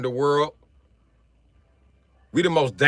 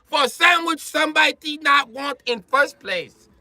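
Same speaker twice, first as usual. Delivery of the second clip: hammed-up Asian restaurant worker voice, high and pitched up; playing a fast-food worker with a put-on accent; mock Asian accent; 8 semitones higher than usual. Comic mocks a restaurant worker in a put-on Asian accent. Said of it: "I know I sound like an Asian".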